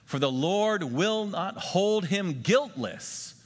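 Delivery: slow, solemn reading aloud; solemn unison-style reading; scripture reading. Acted. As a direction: lead the room through the verse. Congregation reads scripture together.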